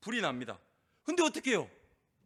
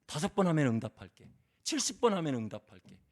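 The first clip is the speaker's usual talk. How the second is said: mock bargaining God; 5 semitones lower, 5 dB louder than usual. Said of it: "이런 말씀 있습니까?".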